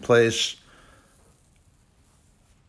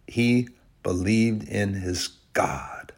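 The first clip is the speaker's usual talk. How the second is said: whisper; 2 semitones lower, 6 dB quieter, slower than usual. Real, not acted. Preacher hushes the point.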